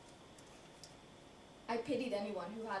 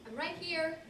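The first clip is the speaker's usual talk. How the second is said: higher-pitched reply, held on HERE; puzzled reply; 6 semitones higher than usual. Acted. Woman answering Bob who has to see her, puzzled and higher. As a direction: point out your presence, pitched up.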